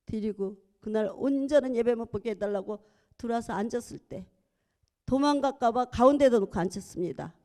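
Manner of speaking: ordinary talk, nothing marked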